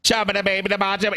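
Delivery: fast gibberish auctioneer chant; mock auctioneer babble. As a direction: rattle it off like a pig auctioneer. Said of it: "He sounds like a cart".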